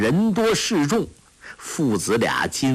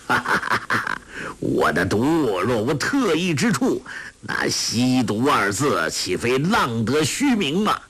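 breathy laugh rolling into proud boasting; laugh, then boast smugly; villain's laugh. Acted. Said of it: "欧阳锋笑道". (轻声得意地笑着夸口)

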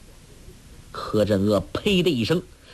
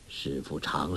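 harsh rebuke, starting low; 9 semitones lower, 10 dB quieter than usual. A narrator's reading. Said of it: "越说越厉害".

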